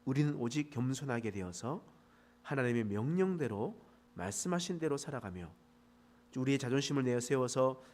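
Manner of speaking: soft, earnest prayer voice; closing prayer. Real, not acted. Pastor leads the congregation in closing prayer, softly earnest. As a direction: pray quietly and humbly.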